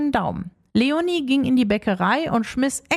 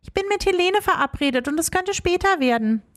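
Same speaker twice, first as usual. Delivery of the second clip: lying to mom; 6 semitones higher than usual. Acted. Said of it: "log Leonie ihre Mutter an".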